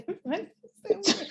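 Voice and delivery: repeated through a laugh; laughing parody; laughing mock line. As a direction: giggle as you parody the line. Mocking the actress's line.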